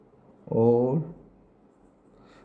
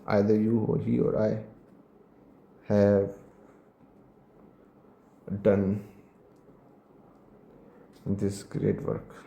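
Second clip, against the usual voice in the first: slow dictation; 3 semitones lower, much slower than usual. Shown as a demonstration. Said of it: "dictating example sentence slowly".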